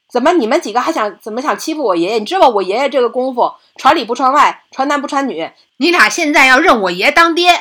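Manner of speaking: put-on defiant girl. 女孩挡在爷爷身前斥责土匪.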